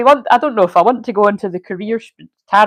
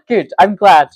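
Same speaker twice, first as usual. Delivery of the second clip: laughing; 7 dB louder than usual. Real, not acted. Reply after laughing.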